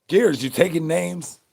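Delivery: high, loud call-out; loud excited hail. Real, not acted. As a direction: shout it across to a friend. Calling out to a viewer.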